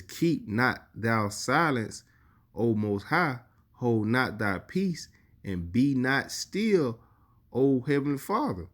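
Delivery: slow, solemn reading of the psalm; scripture reading. Acted. Preacher reading a psalm to his congregation, slow and solemn. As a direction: draw each phrase out like holy writ.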